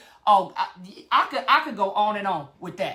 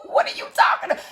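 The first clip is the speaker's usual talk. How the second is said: breathy laugh through the words, much higher and fast; laughing disbelief; much faster than usual. Retold or imitated. Laughing at a surprise apology.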